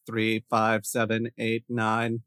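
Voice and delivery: slow, even robotic number reading. Pretend. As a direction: read the digits like a robot. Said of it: "I can record it in a robot voice".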